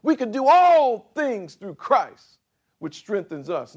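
put-on a young zealot in full cry; pumped-up young preacher. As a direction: shout it like a fired-up youth. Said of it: "we were pumped up".

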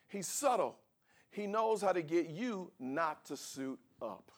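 usual speaking voice

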